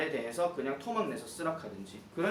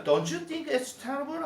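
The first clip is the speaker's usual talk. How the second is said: 동료 흉내; 12 semitones higher, 3 dB louder, much slower than usual. Acted. 동료 대사를 높게 연기.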